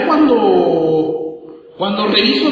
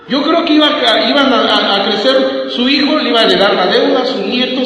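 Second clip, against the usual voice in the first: preaching at full force; 3 semitones higher, 6 dB louder than usual. Real, not acted. Preacher builds on the debt.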